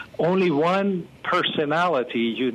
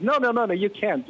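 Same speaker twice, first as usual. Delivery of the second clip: firm refusal; 7 semitones higher than usual. Retold or imitated. God's firm refusal quoted.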